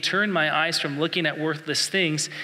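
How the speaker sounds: "Turn my eyes from looking at worthless things" read slowly as a verse; scripture reading. Shown as a demonstration. Pastor quoting Psalm one nineteen, slow reading voice. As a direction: read "Turn" with weight, then the rest slow and even like the printed verse. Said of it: "It says this".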